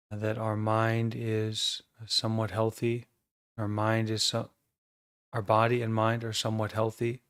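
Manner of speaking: calm, measured meditation guidance with long pauses; guided meditation. Acted. Teacher guiding an online group to notice their breathing, calm meditation voice. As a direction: guide the group gently into awareness, leaving silences between phrases.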